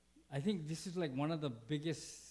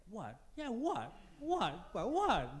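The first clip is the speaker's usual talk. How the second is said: mock comeback; 5 semitones higher, slower than usual. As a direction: bark it back like you're spoiling for a fight.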